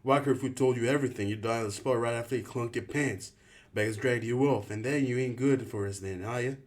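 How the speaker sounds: put-on ranting leader in the boy's face; furious rant. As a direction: keep hammering him with anger. Albie still yelling.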